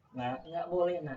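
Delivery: parent's no losing its force; refuse, but start to waver; weakening refusal. Acted. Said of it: "eh, agak berkurang". (larangan yang mulai goyah, kurang kencang)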